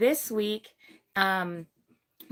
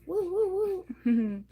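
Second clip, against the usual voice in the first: excited cheer; 9 semitones higher, slower than usual. Real, not acted. Cheering as the stream opens.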